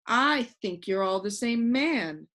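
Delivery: slow, firm, every word weighted; emphatic. A narrator's reading. Milo tells the man he's all four men, emphatic. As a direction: insist on it, slowly. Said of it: "said Milo emphatically".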